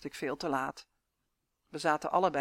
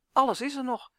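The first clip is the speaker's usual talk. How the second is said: higher and louder, a burst of relief; relieved; 7 semitones higher, 6 dB louder than usual. Acted. Traveler finds the money still in the jacket, relieved exclamation. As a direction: let the relief spill out. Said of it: "zei ik opgelucht".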